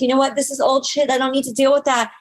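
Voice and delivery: building high, defiant self-affirmation; fired-up declarations rising high, then easing; empowered pep talk. Retold or imitated. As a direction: rev yourself up, pitch climbing to a peak.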